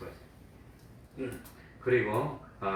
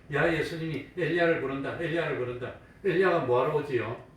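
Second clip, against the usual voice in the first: lightly mocking, raised pitch; 4 semitones higher, 3 dB louder than usual. Bystanders at the cross taunt Jesus, mildly mocking. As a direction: jeer a little, as a bystander would. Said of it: "조롱하는 말입니다".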